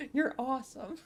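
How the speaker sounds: high, mock-grateful gushing; playfully hammed-up gratitude; flattered reply. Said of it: "And I'm like".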